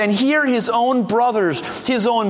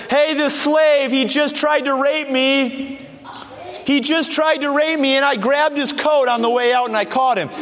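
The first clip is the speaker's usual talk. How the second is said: calling out accusingly; 4 semitones higher than usual. Retold or imitated. Wife calling to the men of the house, accusing the slave, raised mock alarm. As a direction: play the wronged wife crying out for help, somewhat hammed. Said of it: "She calls out to the men of the house".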